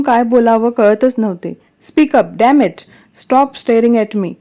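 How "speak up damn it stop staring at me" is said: emphatic, slowed commands; angry orders. Acted. Virat orders frightened Pihu to speak up, angry. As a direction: demand an answer angrily.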